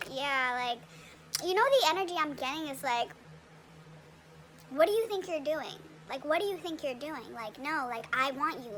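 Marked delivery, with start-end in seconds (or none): 4.7-8.7 put-on childish. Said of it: "it's like a very childish, immature".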